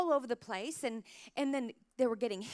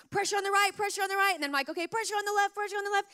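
calling out instructions; 7 semitones higher, faster than usual. Retold or imitated. Coaching son down ski slope.

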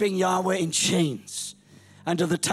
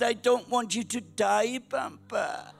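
mock tearful granddaughter, trailing softer; imitated child crying; 2 semitones higher, 4 dB quieter, slower than usual. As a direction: lightly imitate a crying little girl. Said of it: "why are you crying?".

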